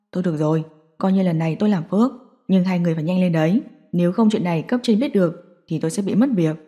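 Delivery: a nervous prison guard saying no. Acted. Guard refuses the parents at the detention center.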